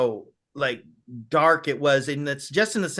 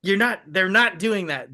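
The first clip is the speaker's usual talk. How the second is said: put-on kid's delight; 4 semitones higher than usual. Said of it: "I remember being like".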